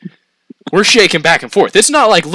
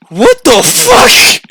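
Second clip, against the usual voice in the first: much higher, louder and slow disbelief; incredulous yell; 9 dB louder, much slower than usual. Retold or imitated. To the girl worried about her nails, shocked yell. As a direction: blurt it out in shock. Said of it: "And I'm going".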